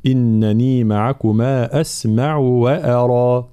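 slow, drawn-out Quran recitation; measured teaching recitation; tajweed recitation. Shown as a demonstration. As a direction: recite evenly with long held vowels and light hamza. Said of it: "ترقيق الهمزة بلا مبالغة".

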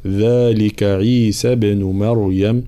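ذلك with a clear full ذ, slow; Quran recitation. Shown as a demonstration. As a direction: recite ذلك without swallowing the ذ. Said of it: "لا نختلس صوت الذال".

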